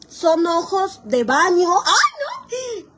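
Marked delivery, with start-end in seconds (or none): 1.8-2.9 high laughing ay no; laughing squeal. Real, not acted. Laughing exclamation.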